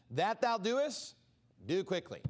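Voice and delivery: slow, weighted scripture words; slow solemn reading. Acted. Jesus telling Judas to go, read slow and solemn. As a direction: draw out each word of Jesus.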